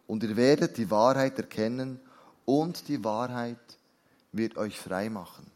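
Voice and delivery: measured, deliberate Bible reading; scripture reading. Acted. Preacher reads Jesus' words to believers, measured and deliberate. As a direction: read it out slowly in weighty phrases.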